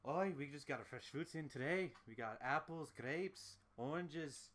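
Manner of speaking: lightly done Scottish-Irish barkeep; Scottish-Irish accent. Acted. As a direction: list the wares with a Scottish-Irish lilt. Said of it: "Scottish-Irish accent".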